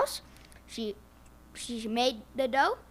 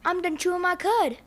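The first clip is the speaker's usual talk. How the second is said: cow voice; 6 semitones higher, 3 dB louder than usual. Acted. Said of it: "said the cow".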